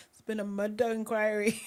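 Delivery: lightly attempted Taggart-style Scottish accent; a hint of badly faked Scottish. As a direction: have a half-hearted go at a Scottish TV detective accent. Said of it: "I can't do accents, it's so bad".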